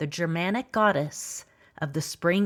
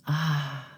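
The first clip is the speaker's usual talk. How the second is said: low-key gasping "ah"; 3 semitones lower than usual. A narrator's reading. Narrator acts emerging from the earth, gasping. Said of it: "Gasping and crouched".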